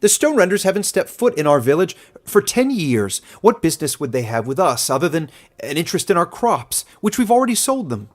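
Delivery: high, loud, incredulous scoffing; a villager shouting down the old man; scornful villager. Acted. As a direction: ridicule the old man's fear. Villager mocks old man's warning.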